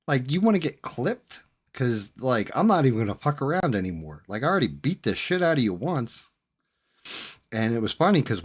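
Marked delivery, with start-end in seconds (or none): 0.0-6.3 much higher, changed voice of disbelief; incredulous rant. Retold or imitated. Inner reaction to the guy returning, higher incredulous voice. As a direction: act baffled he came back. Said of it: "I'm like".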